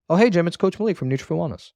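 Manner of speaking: "Oh, hey, Jim" settling into a falling "Wellness"; downward inflection. Shown as a demonstration. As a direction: end "Wellness" as a statement, without a question. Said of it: "I just want it to be flat".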